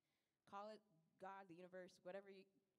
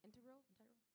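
whispered; 4 semitones higher, 6 dB quieter, faster than usual. Shown as a demonstration. Repeating the word for effect.

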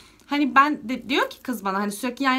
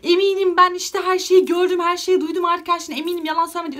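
raised, louder voice retelling the phone shouting; retold shouting; 6 semitones higher, 6 dB louder than usual. Girl shouting at her boyfriend on the phone, louder and higher. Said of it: "Ve ben çocuğa telefonda bağırdım".

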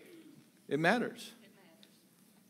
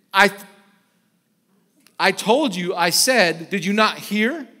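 louder, indignant mock scolding; pretend scolding; 6 dB louder than usual. Preacher imagines scolding his wife over lunch, indignant. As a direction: snap at the wife as if annoyed. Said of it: "had I said".

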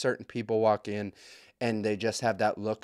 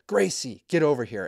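mock mom hollering; 3 semitones higher, 3 dB louder than usual. Mom summoning her kid at the library, mock holler. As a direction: imitate a scolding mom calling out. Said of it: "she's hooting and hollering at her kids".

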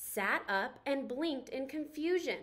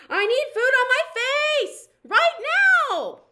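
much higher, much louder desperate plea; frantic demand; 12 semitones higher, 13 dB louder than usual. Acted. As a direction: grab him and demand it now. Paper Plate grabs Forky demanding.

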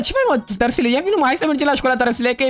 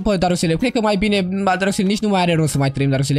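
low, gloomy put-on lament; mock despair; 4 semitones lower than usual. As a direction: play hopeless, voice sunk low. Fakes despair before driving into water.

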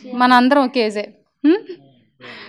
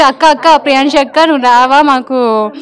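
louder, slowed playful call of akka; mock calling out; 6 dB louder than usual. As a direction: call out to big sister like an eager kid. Voicing kids calling her over.

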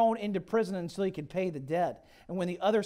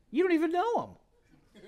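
higher, louder, with a laugh; laughing disbelief; 12 semitones higher, 5 dB louder than usual. Real, not acted. Preacher mocking online anger.

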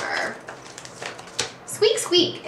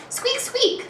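very high squeaky mouse noise; squeaking imitation; 14 semitones higher than usual. Shown as a demonstration. Teacher quizzes student on sound words, high squeaking imitation. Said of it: "What makes that sound".

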